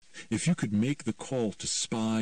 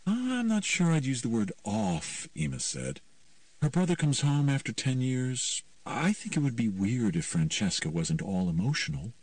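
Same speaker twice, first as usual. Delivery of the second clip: put-on higher teen voice, gently disagreeing; lightly voiced teen girl; 6 semitones higher than usual. Ema defends the sister to Mickey, lightly voiced teen. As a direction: lightly play a teenager pushing back. Ema's dialogue.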